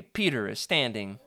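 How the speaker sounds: ordinary talk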